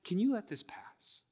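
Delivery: understated, softly pleading prayer; agonized plea. Acted. Suffering child praying to Father God for relief, agonized plea. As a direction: plead quietly, with long pauses between requests. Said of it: "in our agony, we pray to him".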